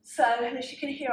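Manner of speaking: slightly winded while talking; out of breath. Real, not acted. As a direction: talk a bit breathless after exercise. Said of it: "I'm slightly out of breath".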